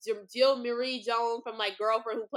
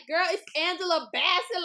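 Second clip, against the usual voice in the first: higher, excited mock shriek; retold excited scream; 7 semitones higher, 4 dB louder than usual. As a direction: breathlessly tell your friend who you spotted. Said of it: "I'm screaming, I'm like".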